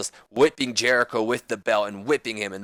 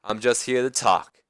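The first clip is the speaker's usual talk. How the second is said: Ric Flair voice; slower than usual. Retold or imitated. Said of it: "And Flair says".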